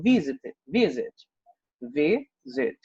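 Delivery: "visit" repeated with the first syllable vi strong and zit weak; stress on vi. Shown as a demonstration. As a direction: hit vi, let zit fall away in "visit". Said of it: "O vi é mais forte do que o zit". ("visit" com ênfase forte na sílaba vi)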